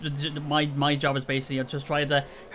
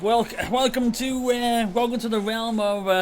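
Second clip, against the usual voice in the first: mock grand welcome; 5 semitones higher than usual. Welcoming Kev to the stream, a lightly hammed-up grand announcement.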